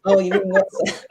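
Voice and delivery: teasing question breaking into laughter; laughing tease. Retold or imitated. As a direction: tease mum while starting to laugh. Teasing mum's pronunciation, laughing.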